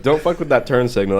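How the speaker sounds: hammed-up loud grumble; mock annoyed local. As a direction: imitate a local griping at a driver. Friend parodying the local.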